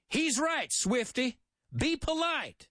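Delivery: high, mock-polite Southern drawl; a sly Southern talker feigning good manners; lightly voiced Southern charmer; southern twang. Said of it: "in my southern twang over there".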